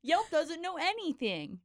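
high, slow, hammed-up indignation; scripted mock outrage. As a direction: read it like a scripted line. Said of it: "You delivered that like you were, like, reading off a script".

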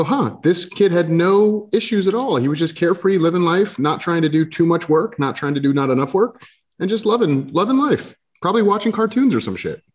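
musing aloud. Retold or imitated. Guest looking at his carefree childhood picture, musing aloud. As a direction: lift the pitch as if marvelling lightly. Voices thoughts on childhood photo.

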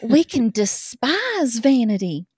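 put-on reading a love letter in a light Southern accent. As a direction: read it as a swooning Southern girl. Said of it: "This is Southern".

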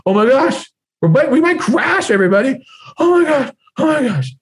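a pilot losing it over the intercom; shrill-free but sky-high alarmed cry of a pilot freaking out; panicking pilot. Acted. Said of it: "you want the captain freaking out".

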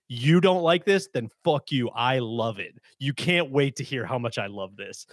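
hostile contrarian. Retold or imitated. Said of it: "hostile contrarians that are just like".

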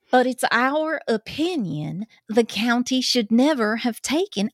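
put-on reading an official's words in a mild Southern country accent. Cohost reading an official's quote in a light Southern accent. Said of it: "my country accent here".

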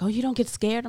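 high-pitched mock surprise; imitating wondering people. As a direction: mimic an incredulous questioner, pitched well up. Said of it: "where people wonder".

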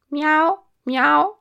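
high, loud imitation of a cat; echoed meowing. A narrator's reading. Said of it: "gli faceva eco il professore".

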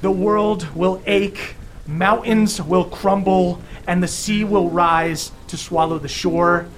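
a lightly booming, solemn pronouncement. Acted. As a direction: proclaim it like a stern deity. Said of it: "continues with a booming voice and goes".

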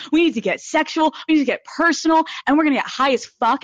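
playful hype; hyped up. Real, not acted. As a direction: pump up the audience. Hyping solo episode.

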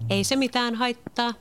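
reassuring. A narrator's reading. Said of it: "isää rauhoitellen".

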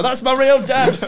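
high, loud re-enacted cry; hammed-up, high-pitched outburst; excited announcement. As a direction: call it out in mock excitement. Acting his excited cry in show.

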